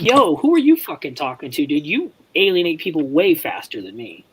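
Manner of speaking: high-pitched comeback, settling toward normal; imitated argumentative comeback; retold indignant retort. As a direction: fire back in mock indignation, starting high.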